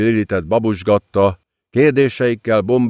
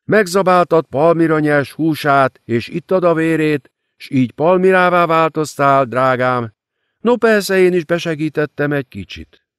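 high, silky demon queen mocking her victim; gloating demoness; 7 semitones higher than usual. A narrator's reading. Demon queen gloating over the ruined girl, silky and high. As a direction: savour every cruel word, sweetly.

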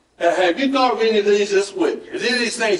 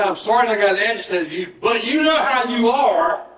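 blame-shifting apology; 4 semitones higher than usual. Acted. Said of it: "put the blame back on them".

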